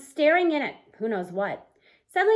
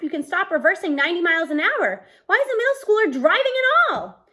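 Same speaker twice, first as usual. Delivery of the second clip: rasping demand; 5 semitones higher, 5 dB louder than usual. Acted. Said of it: "I rasp".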